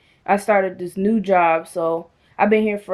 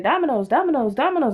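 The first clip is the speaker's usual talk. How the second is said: insistent repetition; 5 semitones higher, much faster than usual. Retold or imitated. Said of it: "She just kept saying".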